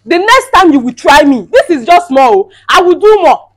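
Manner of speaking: loud, high warning; furious threat. Acted. Wife threatening her husband's mother, shouting.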